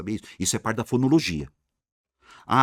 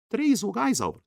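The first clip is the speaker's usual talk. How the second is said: high-pitched mock-student voice; imitated student piping up in doubt; puzzled pupil; 12 semitones higher than usual.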